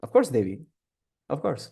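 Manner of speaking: lightly voiced husband, softly and hastily agreeing; Shiva's placating assent. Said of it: "तो शिव भगवान कहते हैं". (शिव बनकर धीमे से हामी भरना)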